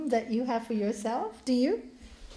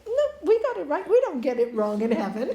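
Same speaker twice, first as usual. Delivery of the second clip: amused correction; 2 semitones higher, 5 dB louder, faster than usual. Acted. Heavenly guide corrects the monk.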